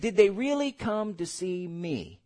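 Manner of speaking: a lightly voiced small boy, wistful; small boy's voice. Preacher retelling the Holy Ghost's small lonely voice, lightly voiced. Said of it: "That's the tone, that's the way he said it".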